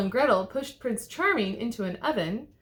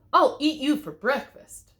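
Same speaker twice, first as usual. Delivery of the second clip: loud, much higher mock roar; troll roar; 6 semitones higher, 7 dB louder than usual. A narrator's reading. The troll challenging at his bridge, loud mock roar. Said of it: "roared the troll".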